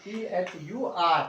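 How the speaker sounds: slow, letter by letter spelling. Shown as a demonstration. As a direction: spell each letter clearly and slowly. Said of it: "वो आर miss कर देते हैं आप". (धीरे-धीरे एक-एक अक्षर बोलकर)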